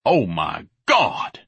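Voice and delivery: slow, slobbery dismay; drawn-out, appalled groan of words; slobbering. Acted. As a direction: slobber it out slowly, aghast. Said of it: "Ignatius slobbered".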